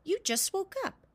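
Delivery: donkey voice. A narrator's reading. Donkey voice again.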